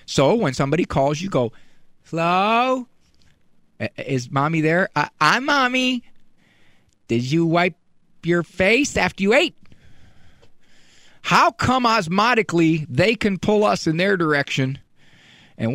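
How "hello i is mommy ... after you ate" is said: mother like a preschooler. Retold or imitated. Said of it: "You too probably sound like preschoolers".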